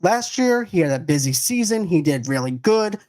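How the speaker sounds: lightly voiced sports agent; sports agent pitch. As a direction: pitch him like a client. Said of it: "I am talking like a sports agent".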